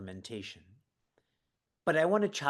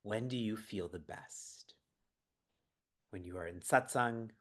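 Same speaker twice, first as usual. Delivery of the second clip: whispered question; 4 dB quieter than usual. Acted. Repeating the question to the chat in a soft whisper. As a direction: hush it like a secret.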